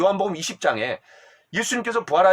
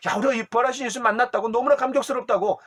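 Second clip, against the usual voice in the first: higher, fast, thrilled telling; excited report; 5 semitones higher than usual. Pretend. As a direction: blurt out the good news. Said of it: "그냥 감격해갖고".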